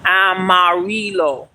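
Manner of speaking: Amarillo pronounced slowly in Spanish; Spanish color word. Shown as a demonstration. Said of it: "You know?".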